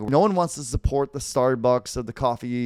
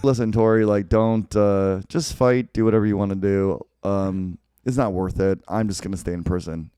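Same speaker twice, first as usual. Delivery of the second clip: lightly voiced Kreese; 5 semitones lower than usual. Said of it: "we're not gonna do the accent".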